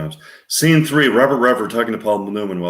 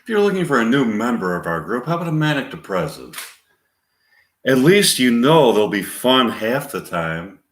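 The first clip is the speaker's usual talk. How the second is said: deadpan. Retold or imitated. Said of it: "without any expression at all".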